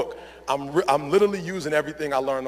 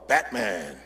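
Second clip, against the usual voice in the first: Batman; 9 semitones lower than usual. Retold or imitated. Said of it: "he shows up like".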